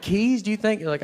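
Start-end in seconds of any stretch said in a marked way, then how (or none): 0.0-0.4 "Keys?" very high, disbelieving; mock incredulous. Comic mocking the man, "Keys?" in high disbelief. 0.4-0.8 much higher, disbelieving mock echo; mock incredulous. Comic mocking the man at security, high incredulous echo.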